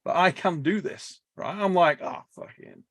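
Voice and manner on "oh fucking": breathless voiceless curse; whispered curse. Retold or imitated. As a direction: hiss the swear under your breath. Grim reaction mid-lift, whispered.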